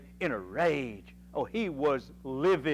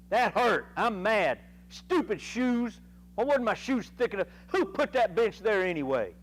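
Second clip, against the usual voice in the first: higher, louder pretend fit of pique over a stubbed toe; mock tantrum; 5 semitones higher, 3 dB louder than usual. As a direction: act out a petty, huffy outburst. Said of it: "get mad".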